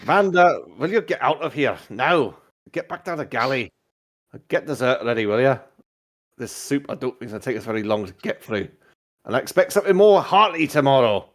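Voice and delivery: captain giving orders to the cook; lightly acted stern captain; ship captain. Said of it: "The captain just says".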